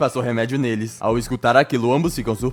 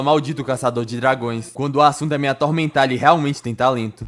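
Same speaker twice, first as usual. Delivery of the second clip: mild irritation. Acted. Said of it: "Rosvace irritada fala".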